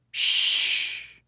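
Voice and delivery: breathy shushing sound; hushing. A narrator's reading. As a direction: hush him quickly. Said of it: "Beocca said".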